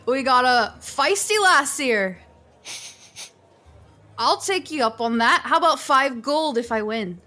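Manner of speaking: loud, amused tavern dwarf with a laugh in it; jolly dwarf. Acted. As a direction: play the cocky drunk dwarf. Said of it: "looks at you and goes".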